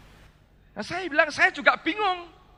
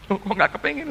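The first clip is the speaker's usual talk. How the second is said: rising, disbelieving "kepengin"; light mock surprise repeating "kepengin"; puzzled question. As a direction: echo her words back in mild surprise. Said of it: "Saya bilang".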